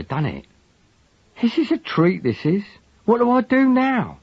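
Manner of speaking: high, thin and shaken cockney voice. A narrator's reading. Lugg, shaken by news of the killing, speaks in a thin voice. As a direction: let the voice go thin with shock. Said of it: "his voice was thin".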